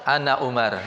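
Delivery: calmly brushing off an insult; lightly, calmly. Retold or imitated. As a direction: answer the insult lightly, without heat. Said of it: "Ringan saja beliau mengatakan".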